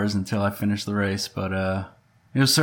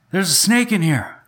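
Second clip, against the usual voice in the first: put-on very high, alarmed yell; 10 semitones higher, 4 dB louder than usual. Telling the chat what she yelled out from the bath, retelling a yell. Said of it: "she yells out".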